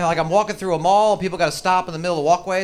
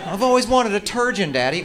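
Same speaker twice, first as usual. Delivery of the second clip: put-on higher whiny teen voice; whiny daughter; 5 semitones higher than usual. Spoiled daughter begging her rich father, higher. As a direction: beg daddy like a spoiled girl. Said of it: "spoiled girl asks daddy".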